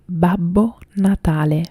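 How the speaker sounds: "Babbo Natale" said clearly in Italian; Italian pronunciation. Shown as a demonstration. Streamer teaching viewers the word for Santa, Italian pronunciation. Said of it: "How do you say Santa in Italy?".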